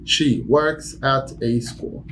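slow plain repeat. Shown as a demonstration. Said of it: "repeated demo".

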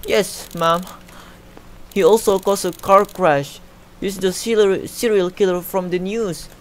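high, loud acted urgency; panicked caller. Caller tells police it is the serial killer, panicked urgency. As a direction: insist in mock panic to the dispatcher.

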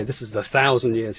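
"thousand" carries the emphasis; stress on thousand. Shown as a demonstration. Phonetician showing where Churchill wants emphasis, stress on "thousand". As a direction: put the weight on "thousand", falling after it. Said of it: "this is the part of the emphasis".

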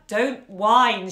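loud fierce rebuke; sudden furious scolding; savage snap. Acted. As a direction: bite it off fiercely. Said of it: "with a ferocity so swift and savage".

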